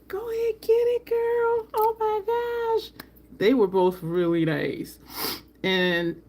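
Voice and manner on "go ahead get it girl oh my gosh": very high squeal of hype for a friend; retold cheering. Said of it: "I was like".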